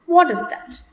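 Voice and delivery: high start, then a firm fall on "that". Shown as a demonstration. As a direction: question starting high on "What" and falling on "that". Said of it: "make use of falling tone".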